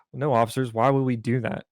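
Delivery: mock-innocent, cheeky question to the cop; smart-ass reply. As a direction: play dumb with a sly edge. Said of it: "this is where I was a bit of a dick".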